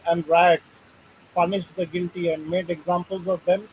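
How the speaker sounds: halting read-aloud from a printed article. Real, not acted. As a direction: read the text out in short phrases. (लेख पढ़कर सुनाते हुए)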